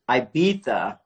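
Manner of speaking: Ibiza with a th sound for the z; lisped Ibiza. Real, not acted. Host opens live from the island, Ibiza said with th. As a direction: say Ibiza as "eye-BEE-tha". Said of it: "I hear, hear friends that say Ibiza and Ibiza".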